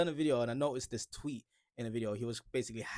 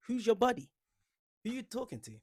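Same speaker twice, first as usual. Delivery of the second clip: mock indignant; 9 semitones higher, 7 dB louder than usual. Mock offence at commenter.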